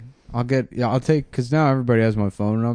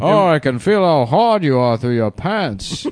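phone sex voice; 5 semitones higher, 5 dB louder than usual. Pretend. Phone sex line bit.

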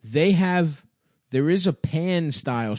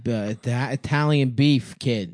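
put-on Boston accent. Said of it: "things that can be said in a Boston accent".

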